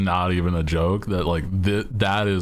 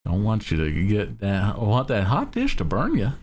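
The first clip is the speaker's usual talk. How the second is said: higher, homey Midwestern mom voice; light Midwestern accent, a touch higher; 3 semitones higher than usual. Shown as a demonstration. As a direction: warn her like a fussing Midwestern aunt. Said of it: "I don't think I even do a good, like, Midwestern accent".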